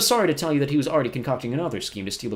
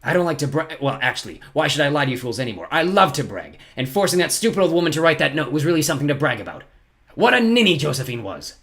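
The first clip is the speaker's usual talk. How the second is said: louder, gloating Count Olaf; crowing about his own cruelty; boastful villain; 5 semitones higher, 6 dB louder than usual. Acted. Olaf gloats to the orphans, boastful and sneering.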